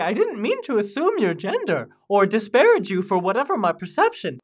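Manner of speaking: halting, lilting phrases with the British fading; half-lost British lilt; British accent slipping. Acted. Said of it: "lost your, the British part of your accent. You're just sort of speaking in sort of halting, lilting phrases".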